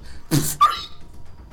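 high whooshing mouth noise; shield sound effect. Acted. Game master imitating a shield pushing a wolf away, sound effect.

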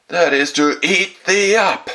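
very loud, high, slow menace; wolf pouncing. A narrator's reading. Wolf about to devour the girl, loud pouncing voice. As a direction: belt each word out as a triumphant wolf.

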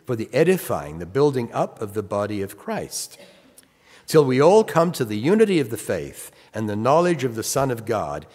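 scripture reading. Acted. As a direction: read the verse out with weight. Reads scripture aloud.

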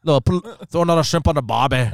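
badly faked Aussie accent; unconvincing Australian twang. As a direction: try an Australian accent and miss. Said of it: "you're terrible at accents".

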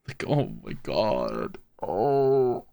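exasperated. Real, not acted. Exasperated at the dog.

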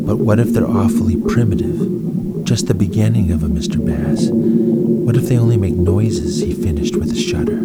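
lightly dramatic storybook reading; story narration. A narrator's reading. Narrator reading a space adventure to listeners, lively storytelling. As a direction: tell it like a bedtime adventure.

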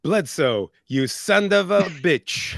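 slow mock Austrian Arnold line, breaking into a laugh; a playful Schwarzenegger greeting; Arnold accent. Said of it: "you tried to do the accent".

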